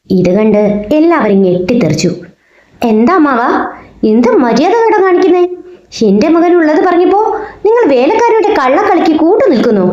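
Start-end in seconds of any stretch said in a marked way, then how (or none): 2.8-9.9 high, furious shouting at the elder; furious roar. A narrator's reading. Gangadharan shouts at his father-in-law for slapping his son, furious. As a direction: rage at the insult to his son. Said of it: "ക്രോധം കൊണ്ടലറി".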